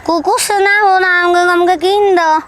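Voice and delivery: whining insistence. Acted. Wife nagging husband for a dog, whining. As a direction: insist with a pleading wail.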